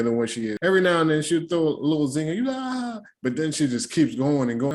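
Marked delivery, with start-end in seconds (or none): 2.6-3.0 high, drawn-out "ah"; imitated high cackle, held long; mock reaction cry. Mimics laughing at her zinger.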